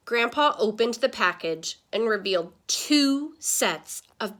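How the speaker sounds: put-on lively read-aloud to kids; animated classroom storytime voice; story narration. A narrator's reading. Reads picture book aloud.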